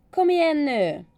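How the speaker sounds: high, loud cheering-on shout; imitated coach's yell. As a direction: call it out like a coach urging a racer on. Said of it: "en av mina tränare skrek".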